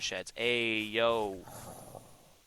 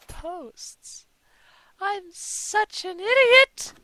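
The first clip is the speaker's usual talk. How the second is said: much higher, slow, loud cry at himself; self-scolding yell; 10 dB louder, much slower than usual. Real, not acted. Builder yelling at himself for building posts, exasperated. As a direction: berate yourself.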